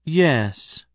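drawn out as two syllables, Yes; slow two-syllable yes. Acted. Girl answering the hiker slowly, yes as two syllables. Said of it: "She said it slowly, as two syllables".

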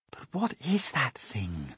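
a soft, slow, hushed voice. Acted. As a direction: ask it under your breath in awe. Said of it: "whispered the ladybird".

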